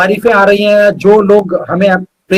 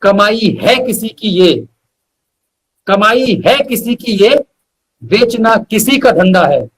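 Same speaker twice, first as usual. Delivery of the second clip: measured shayari recital with weighty pauses; poetic recitation; slower than usual. Acted. Reciting his couplet to the host, measured and poetic. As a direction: lean into each line like a mushaira couplet.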